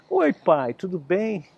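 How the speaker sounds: voz de criança tranquila, um pouco mais aguda; calmo, tranquilo. Acted. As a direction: menino sereno cumprimenta o pai. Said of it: "Na tranquilidade". (menino tranquilo responde ao pai, com voz calma)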